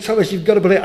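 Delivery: loud, high pleading nag; exasperated nagging. Acted. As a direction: press him again, exasperated. Disciples nagging Thomas all week.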